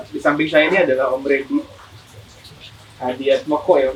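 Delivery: muffled behind a mask; introducing through a mask; through a face mask. Real, not acted. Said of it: "kita berdua pakai masker nih".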